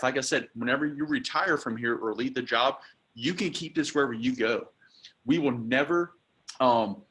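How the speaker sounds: upbeat, selling every line; enthusiastic sales pitch. Shown as a demonstration. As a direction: romance the commitments to the customer. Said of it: "we have to romance some of it".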